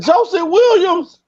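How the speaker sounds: high, slow startled repeat of the name; the mother catching the name in shock; surprised question. Retold or imitated. Mother to the young man, startled, high and slow.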